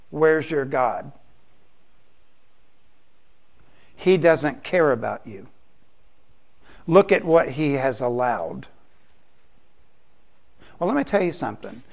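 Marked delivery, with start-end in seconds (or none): 0.1-8.7 Satan's whisper. Acted. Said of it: "he whispers".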